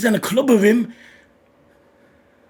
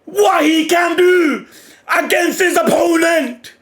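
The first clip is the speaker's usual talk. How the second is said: hyped shouting; 3 semitones higher, slower than usual. Real, not acted. Fan yelling at the manga page in real delight. Hyped reaction to the jump rope panel.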